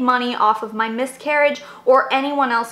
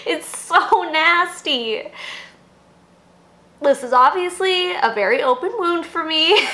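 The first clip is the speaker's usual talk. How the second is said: higher-pitched, tearful disgust; crying; 4 semitones higher than usual. Real, not acted. Host recalling her own miscarriages, tearful and upset. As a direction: talk through real tears. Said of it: "crying right now".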